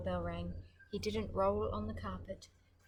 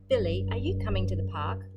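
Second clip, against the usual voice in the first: calling out; 8 dB louder than usual. Acted. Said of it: "called Dad".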